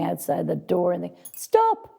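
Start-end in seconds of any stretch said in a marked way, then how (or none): 1.3-1.9 mock shout. Acting out silencing noisy people.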